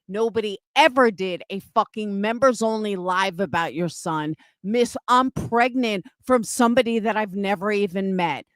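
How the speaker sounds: real, cursing denunciation, punching the insults; angry tirade. Real, not acted. Streamer answering claims about the accuser's son, angry. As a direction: lay into the liar, hammering each accusation. Furious direct tirade at Avery.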